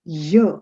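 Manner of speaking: "Y" said as a short yuh; short y glide on "Y", yuh; wrong French U. Shown as a demonstration. Teacher showing a mistake, yuh sound. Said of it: "not the letter Y".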